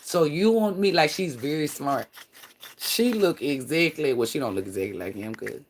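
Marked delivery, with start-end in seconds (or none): 0.0-0.9 lightly voiced little girl, raised pitch; little girl impression. Imitating a little girl online talking to her mama, lightly childlike. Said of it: "And she talk like this".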